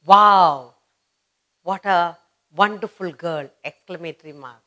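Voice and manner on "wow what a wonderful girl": teacher's praise. Retold or imitated. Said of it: "What would the teacher say?".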